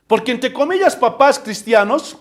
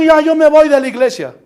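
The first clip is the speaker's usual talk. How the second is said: mock huffy exit; 8 semitones higher, 10 dB louder than usual. Voicing a member who leaves.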